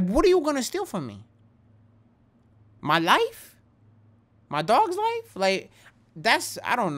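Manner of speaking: high, loud, incredulous rant; heated rant. Real, not acted. Vlogger ranting at would-be robbers, high incredulous rant. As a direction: fire off each question in disbelief. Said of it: "I'm ranting at this point".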